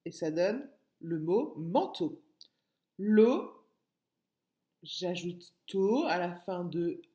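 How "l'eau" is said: L'eau called out much louder with a rise; loud syllable call. Shown as a demonstration. Teacher giving pupils the next syllable, loud with a rise. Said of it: "syllable sequence".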